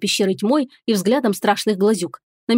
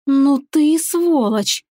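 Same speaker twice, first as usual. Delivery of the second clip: slow, higher angry hiss; 5 semitones higher, much slower than usual. Acted. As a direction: spit the insult out slowly. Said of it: "прошипела я".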